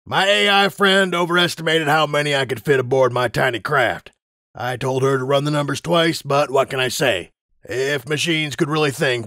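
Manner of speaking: cocky warning, lightly characterised; lightly voiced Griffin pilot. Griffin pilot warning the crowd off the fence, lightly voiced.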